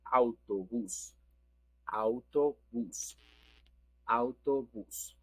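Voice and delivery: "autobús" slowly, stress on the bús; stress on final syllable. Shown as a demonstration. Teacher models the bus word, slow, final-syllable stress. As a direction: draw out "autobús", accent on the final u. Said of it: "we have the accent in the U".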